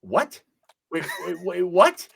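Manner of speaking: disbelieving double take; surprised. Real, not acted. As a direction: stop them, astonished. Reacts in disbelief.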